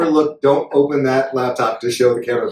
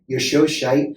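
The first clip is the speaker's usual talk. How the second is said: cheeky kid's Glaswegian accent, lightly imitated; Glaswegian child; 4 semitones higher, much slower than usual. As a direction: mimic a blunt little Glasgow boy's accent. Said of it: "little Glaswegian dude's".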